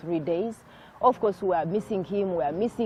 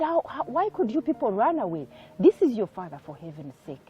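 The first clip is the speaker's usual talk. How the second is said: higher mock scolding, a touch of anger; retold angry scolding; 4 semitones higher, 3 dB louder than usual. Mother scolding the children for running from father, mild retold anger. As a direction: imitate mother telling off her kids, mildly. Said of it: "she was so angry with us".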